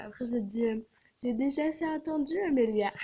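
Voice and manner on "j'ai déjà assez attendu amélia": mock-impatient, drawn up higher; teasing fake exasperation; ironic complaint. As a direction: playfully scold a friend for keeping you waiting. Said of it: "c'est ironique".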